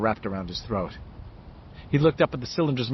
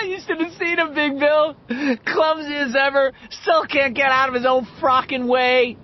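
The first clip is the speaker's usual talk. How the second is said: high, loud, laughing jeer; half-hysterical crowing; laughing mockery; 13 semitones higher, 5 dB louder than usual. A narrator's reading. Richie mocking Henry to Bill, laughing crazily.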